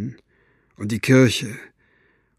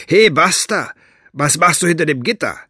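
higher, louder, taken-aback question; puzzled henchman calling out; baffled; 6 semitones higher, 5 dB louder than usual. A narrator's reading. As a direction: ask it in baffled surprise. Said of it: "fragte Flachnase verblüfft".

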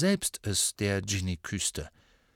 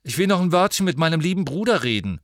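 sarcastic threat; 7 semitones higher, 6 dB louder, faster than usual. Acted. Ginny threatens brother sarcastically.

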